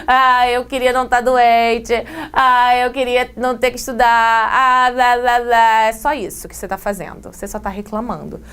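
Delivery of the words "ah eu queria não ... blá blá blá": sighing "Ah" leading each grumbling wish; mock whining. Shown as a demonstration. Teacher mimicking a complaining student for her class, whiny. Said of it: "Eu tô reclamando".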